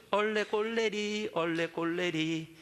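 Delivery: drawn-out playground chant, slow; slow mocking singsong; slow singsong taunt. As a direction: tease like a child on the playground. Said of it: "해보셨죠?".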